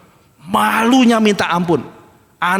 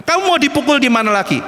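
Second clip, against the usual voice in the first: mildly angry rebuke, pitched up; angry God; 4 semitones higher than usual. Retold or imitated. Preacher quoting God to Israel, mildly angry. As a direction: lightly voice God's exasperated question. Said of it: "Tuhan tuh sudah marah".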